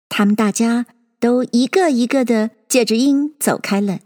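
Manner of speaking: usual speaking voice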